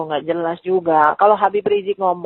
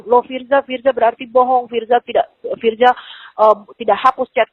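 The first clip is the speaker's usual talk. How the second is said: higher-pitched, startled stammer; retold surprise; 4 semitones higher, faster than usual. Woman retells Habib finding the chat undeleted, mock startled voice. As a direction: imitate someone caught off guard, mildly. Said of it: "dia kaget kan".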